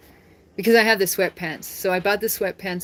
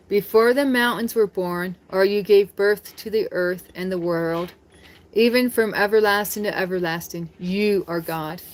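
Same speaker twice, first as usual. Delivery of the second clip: scripture reading. Acted. Reads scripture aloud.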